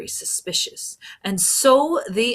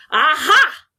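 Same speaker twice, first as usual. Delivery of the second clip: high, loud "Aha!"; triumphant cry; 8 semitones higher, 10 dB louder than usual. A narrator's reading. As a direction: pounce on it like you've caught the killer. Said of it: "the inspector cried".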